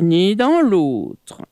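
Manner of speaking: usual speaking voice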